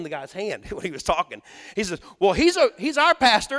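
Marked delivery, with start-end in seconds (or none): 2.2-3.6 a loud, high, eager blurt. Retold or imitated. Bystander proudly blurting to the homeowner, loud and high.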